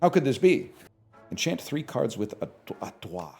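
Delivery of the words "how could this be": mock confusion. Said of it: "even I have to go".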